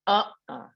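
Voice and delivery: UH-uh, stressed on the first syllable, falling; a short "Uh-uh" with the weight up front. Shown as a demonstration. Teacher demonstrates a gut no, UH-uh stressed first. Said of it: "emphasis on the first syllable".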